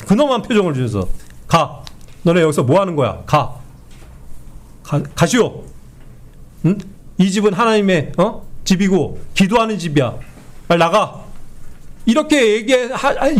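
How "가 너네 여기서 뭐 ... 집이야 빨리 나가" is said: a lightly voiced stern Jesus sending traders out, no anger; firm and grave, never shouting; stern but calm. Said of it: "엄하게 했을 뿐이지".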